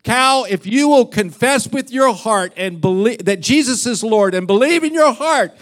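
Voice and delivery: hardcore preaching. Retold or imitated. Pastor preaching full force to the cow, mock fervent. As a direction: preach it hard like a revival. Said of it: "he's just preaching a hardcore salvation message".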